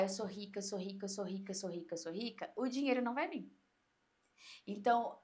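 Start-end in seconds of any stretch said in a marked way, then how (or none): 0.0-2.5 mock money mantra. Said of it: "se você ficar".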